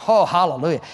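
ordinary delivery

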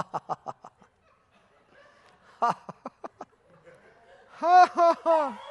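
demonstrating holy laughter, ha ha ha; staged laughing fit; forced laughter. Shown as a demonstration. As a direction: laugh out on purpose, in bursts. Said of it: "just say, Lord, help me to laugh".

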